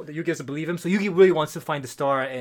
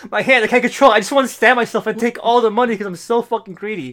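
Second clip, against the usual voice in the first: frantic greedy villain; 4 semitones higher, 5 dB louder than usual. Retold or imitated. Acted villain losing control.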